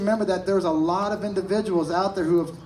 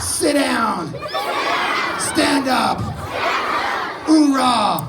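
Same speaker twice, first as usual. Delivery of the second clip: loud gung-ho soldier; 6 semitones higher, 4 dB louder, much slower than usual. Real, not acted. Marine shouting commands and chant.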